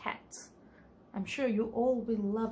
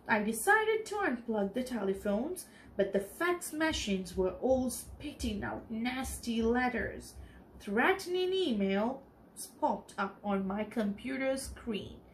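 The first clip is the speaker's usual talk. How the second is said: story narration. A narrator's reading. Teacher reading a storybook aloud to the children, clear and lively.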